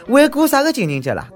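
high mocking jeer; scoffing. Real, not acted. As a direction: scoff at the idea. Mocking rhetorical question.

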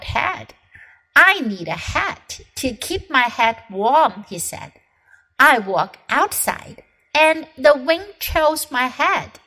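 put-on lively read-aloud for children; children's storybook reading; story narration. A narrator's reading. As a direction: tell it like a picture book to kids. Reads the story aloud again.

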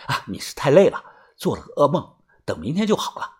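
hushed, soothing reassurance; soft comforting. Acted. Comforting someone after a nightmare, softly reassuring. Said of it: "轻声地安慰地说".

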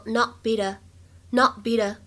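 "not beat a" with unreleased t in "not", "beat a" run together; linked American reading. Shown as a demonstration. Teacher showing how three words join, "not beat a" linked with flapped t. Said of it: "连读和美音浊化".

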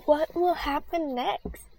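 breathy suspense whisper. A narrator's reading. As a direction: hush it like a secret. Teaser line to listeners.

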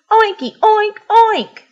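high, excited piggy oinks; squealed cartoon pig greeting; pig oinking. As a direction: oink out loud like a happy pig. Pig demonstrates pig talk.

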